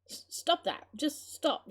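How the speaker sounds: high, stammered protest; breathless cry. Acted. Grandmother batting girl away, breathless cry. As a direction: cry out between heavy breaths. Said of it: "she cried, breathing heavily".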